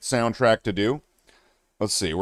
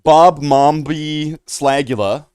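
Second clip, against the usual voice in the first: mock mangled name; 3 semitones higher, 5 dB louder, slower than usual. Mangling banned song names.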